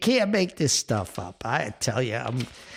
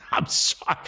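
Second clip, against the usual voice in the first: laughing. Real, not acted. Apologizing while laughing at himself.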